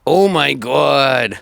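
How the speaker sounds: drawn-out New York accent; slow Oh my God in a New York accent. Real, not acted. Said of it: "I'll stop saying that".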